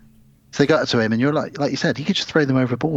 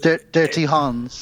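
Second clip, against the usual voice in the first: mock sleazy name; 3 semitones higher, slower than usual. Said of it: "I made that sound like a bad porn movie".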